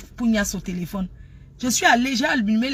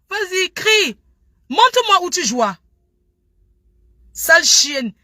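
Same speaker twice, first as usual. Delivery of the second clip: loud, high, domineering pretend lover; rough shouted commands; 7 semitones higher, 6 dB louder, slower than usual. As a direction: order a lover about at full volume. Pretend lover's call turns rough. (ordres criés, jeu amoureux brutal)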